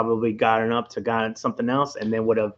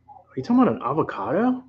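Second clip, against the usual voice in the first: lightly put-on California accent, higher pitch; a hint of Californian in a rising question; mock California-accented disbelief; 5 semitones higher than usual. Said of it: "I said it in my California accent".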